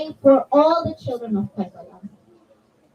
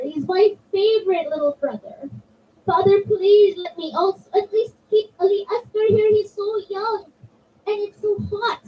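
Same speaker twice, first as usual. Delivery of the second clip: higher-pitched, tearful begging with a catch of crying; crying plea; 5 semitones higher than usual. Acted. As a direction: beg through tears for the baby brother to stay. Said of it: "Sugra was crying and crying".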